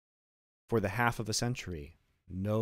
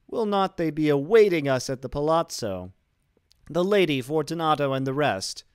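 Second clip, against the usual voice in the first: high and loud, laughing then pleading; nervous cheer sliding into begging; Fortunato's frantic laughing voice; 6 semitones higher, 7 dB louder than usual. Acted. Chained Fortunato urging Montresor to leave, high and loud. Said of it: "It was succeeded by a sad voice".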